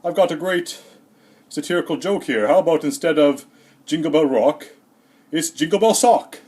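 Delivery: lightly voiced kid pitching a joke; grade-four friend. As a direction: present a silly joke like a proud child. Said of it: "a friend in grade four".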